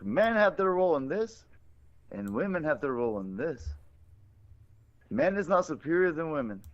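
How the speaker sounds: lightly imitated Indian accent; mock Indian accent. Hindu guy explaining men's and women's roles, light mock Indian accent. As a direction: preach with a hint of cartoon Indian accent. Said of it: "he talks like this".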